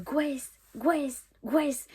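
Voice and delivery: Grace said as "gwess"; mispronounced name. Retold or imitated. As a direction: call out Grace with a "gw" and a short e. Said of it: "ils savent pas trop comment le dire". (Grace prononcé « gwess », à la française)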